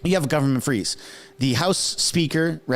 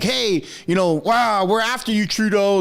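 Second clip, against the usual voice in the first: mock clickbait hype; 6 semitones higher than usual. Mocking clickbait headlines aimed at Trudeau, mock hype.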